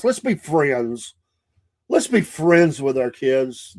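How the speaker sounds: slow, drawn-out mock niceness; mocking permissive parents. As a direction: imitate pushover parents, dragging the words. Mocking new-style permissive parents.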